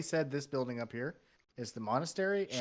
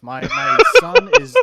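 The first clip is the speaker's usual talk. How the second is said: upset parent; 18 dB louder, slower than usual. Acted. GM voices worried parent NPC.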